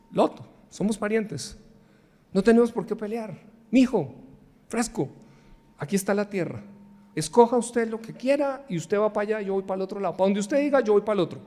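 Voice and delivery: calm Lot down like a patient uncle; Abraham soothes his kinsman Lot to stop the quarrel; gentle, reassuring Abraham. Acted.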